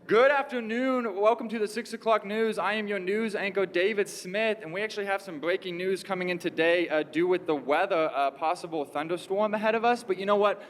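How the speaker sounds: lightly voiced TV newsreader; news anchorman. Anchorman handing over to the weatherman, mock newscast delivery. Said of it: "like, an anchorman cue him".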